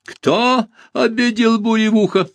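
high raspy menacing question; raspy strange voice. Acted. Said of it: "незнакомым хриплым голосом".

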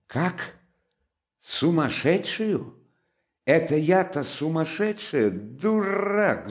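high indignant shriek. A narrator's reading. Katerina shrieks at Luzhin for calling her mad, high shriek. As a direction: screech it back at him. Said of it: "взвизгнула Катерина Ивановна".

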